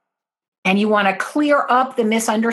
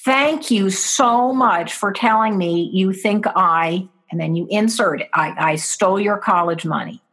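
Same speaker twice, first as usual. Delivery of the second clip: grateful and calm. Shown as a demonstration. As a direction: soothe them with gratitude. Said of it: "So you would say to your child".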